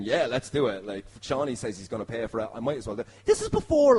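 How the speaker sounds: ordinary delivery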